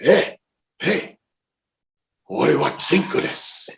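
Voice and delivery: high-pitched mock call to a driver. Passenger calling to taxi driver in practised Japanese, high call.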